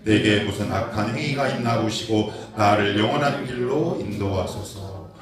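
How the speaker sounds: slow, loud scripture read in unison; slow unison Bible reading; congregational reading. Real, not acted. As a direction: read it slowly together with the church. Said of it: "같이 한번 읽어봅시다. 시작".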